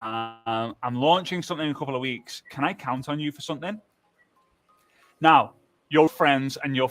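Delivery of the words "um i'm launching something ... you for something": casual hesitant ask. Shown as a demonstration. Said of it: "Or you would say".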